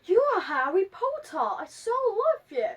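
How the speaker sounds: high, laughing gush of praise; laughing delight. Real, not acted. Teen laughing while gushing to the host. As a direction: gush through giggles. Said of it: "Hermione accent, so good".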